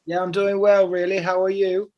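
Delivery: casual fake British small talk; American faking a British accent; put-on English accent. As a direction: keep up the mock English accent. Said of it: "Are you doing my accent?".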